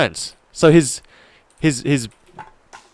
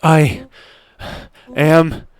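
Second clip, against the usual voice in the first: loud, panting bursts between breaths; winded boasting; 5 semitones higher, 6 dB louder, slower than usual. Acted. Racer claiming victory after a run, out of breath. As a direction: boast while acting out of breath.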